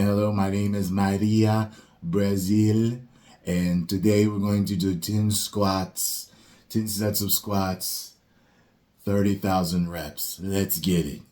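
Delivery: a lightly voiced Brazilian fitness model, a bit raspy. Mocking Instagram fitness models, light raspy Brazilian accent. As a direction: imitate a Brazilian influencer's raspy voice. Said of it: "they all kinda talk like this".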